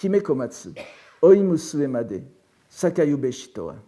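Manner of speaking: measured poem reading, pausing between lines; reciting. Shown as a demonstration. Professor reads the poem to the class, reciting. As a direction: recite the Japanese verse line by line. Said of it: "je vais d'abord le, vous, vous, vous le lire".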